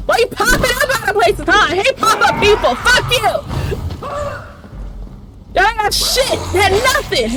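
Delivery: high-pitched, worked-up angry outburst; exasperated rant. Real, not acted. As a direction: rant at them in real exasperation. Ranting at the game's enemies.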